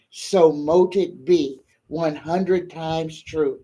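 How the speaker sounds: a heartfelt spoken prayer for healing. Acted. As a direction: call on the universe with reverence. Prays for a sick viewer.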